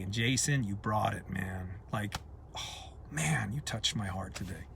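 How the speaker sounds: low, soft, sincere thanks; heartfelt, moved. Real, not acted. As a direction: drop down soft and low, really touched. Moved, thanking Jason for his video.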